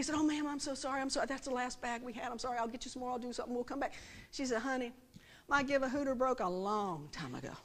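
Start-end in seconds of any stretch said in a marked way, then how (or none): 0.2-3.9 soft, low run of apologies; flustered apology. Retold or imitated. Cashier to customer after splitting her bag, flustered apology. 4.6-7.5 put-on unbothered old lady. Old lady's unbothered reply retold.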